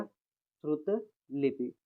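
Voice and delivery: श्रुत लिपि spoken very slowly, syllable by syllable; slow careful spelling. Shown as a demonstration. Teacher slowly dictates श्रुत लिपि to students. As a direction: drag out श्रुत लिपि deliberately. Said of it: "इसका विशेष ध्यान दिया करिए".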